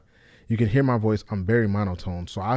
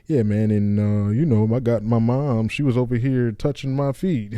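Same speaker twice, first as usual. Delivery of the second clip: dull delivery; 6 dB louder than usual. Shown as a demonstration. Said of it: "if I sound like".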